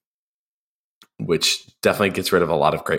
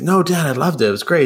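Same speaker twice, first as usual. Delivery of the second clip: higher, eager retold reassurance; mock reassuring; 10 semitones higher, faster than usual. Son reassuring dad about his toast, eager and higher. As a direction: imitate a son lightly protesting to his dad.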